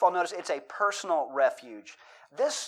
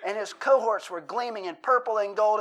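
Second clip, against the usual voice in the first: intense recitation; 5 semitones higher than usual. Retold or imitated. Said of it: "I just kept going".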